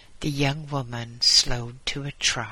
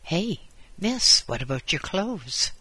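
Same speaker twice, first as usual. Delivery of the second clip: calling out; 5 semitones higher than usual. Acted. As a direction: shout to get her attention. Man calls out to woman.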